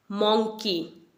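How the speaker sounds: मंकी as MONG-kee, rounded o; common mispronunciation. Shown as a demonstration. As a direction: say मंकी with a vowel like "long". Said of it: "लेकिन मंकी नहीं है".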